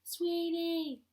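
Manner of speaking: high, drawn-out calling out; mock husband yelling. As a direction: holler for your wife like a helpless husband. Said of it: "just screaming our name".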